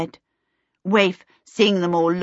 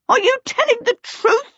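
very high, louder kobold challenge; glowering kobold; 5 dB louder than usual. A narrator's reading. Kobold doubting Charmaine's word, glowering. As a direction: demand it as a suspicious little creature. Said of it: "glowered at her".

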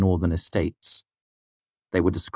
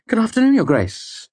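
mock surprise; 5 dB louder than usual. Pretended to look surprised.

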